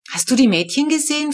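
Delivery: put-on a mother looking for her girls; lightly voiced mum. Mama asks the narrator about the girls, lightly voiced mother. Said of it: "fragt sie".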